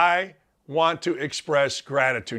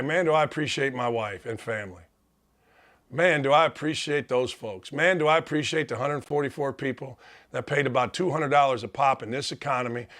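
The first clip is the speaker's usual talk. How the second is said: choked up; 3 semitones lower than usual. Real, not acted. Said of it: "I'm gonna cry".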